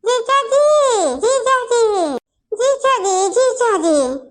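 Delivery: drawn-out whining call, high; whiny calling. Acted. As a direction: wail for him like an upset kid. Boy calls out, whining. (रोते हुए पुकारना)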